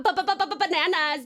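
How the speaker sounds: ba-ba-ba-ba-ba-bananas with a stuttering run-up, fast and laughing; stuttered bananas. Pretend. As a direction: stutter the "ba" several times before landing on bananas. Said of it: "B A N A N A S".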